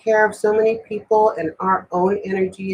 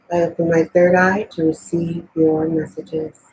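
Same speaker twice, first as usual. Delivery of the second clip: prayer. Acted. Prays to open the reading.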